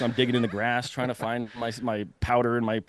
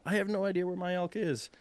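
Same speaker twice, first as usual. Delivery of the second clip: retold yell; 8 semitones higher, 5 dB quieter than usual. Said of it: "I hear him yell".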